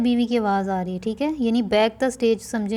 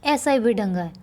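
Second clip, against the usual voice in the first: angry mother; 3 semitones higher than usual. Acted. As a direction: drag the child off yelling. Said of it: "ماں اسے غصے ہوتے".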